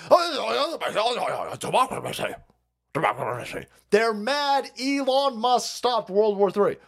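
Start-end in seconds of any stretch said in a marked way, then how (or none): 0.1-3.7 mocking. Mocking the left's slogan.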